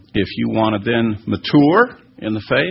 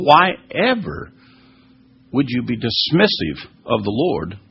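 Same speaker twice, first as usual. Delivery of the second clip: incredulous. Real, not acted. Indignant rhetorical question to listeners.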